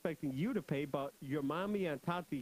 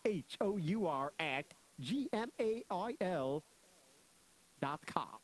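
spelled out slowly, letter by letter; slow spelling; slower than usual. Real, not acted. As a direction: give each letter time to be written down. Repeats address slower on request.

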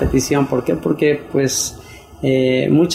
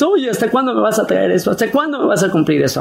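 mock insulting demand; 8 semitones higher, much faster than usual. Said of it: "tú lo insultas".

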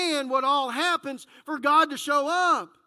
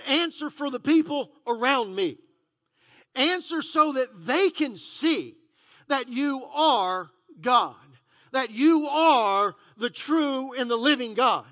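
Elijah praying; 3 dB louder than usual. Acted. Elijah's prayer, slow and solemn.

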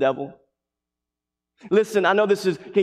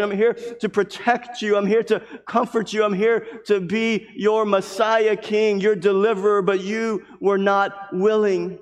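Jesus pleading; 4 semitones higher than usual. Acted. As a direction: plead as Jesus to his people. Preacher voices Jesus pleading.

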